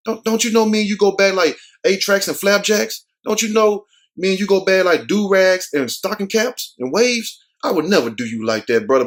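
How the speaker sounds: a light hammed-up plea of innocence; straight-faced denial. Lying friend swears loyalty over stolen pork chop, mock pleading. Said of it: "with a straight face".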